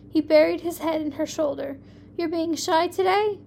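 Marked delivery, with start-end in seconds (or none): 2.2-3.4 light teasing question, pitched up a touch; a touch of a giggle in the question; giggling tease. A narrator's reading. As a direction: ask it playfully, as if about to giggle. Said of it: "she asked with a giggle".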